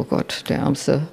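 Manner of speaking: whispered, pitying aside; a hushed private thought of pity. Retold or imitated. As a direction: whisper it to yourself under your breath.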